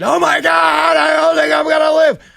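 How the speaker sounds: very high, loud, ragged, rough screaming. Acting out a shot wife in the passenger seat: imitating someone screaming. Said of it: "she's there screaming in the passenger seat".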